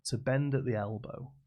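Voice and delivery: loud, measured phrase by phrase; emphatic, carefully spaced request; deliberate wish. Acted. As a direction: spell out the wish with pauses. Third man states odd wish carefully.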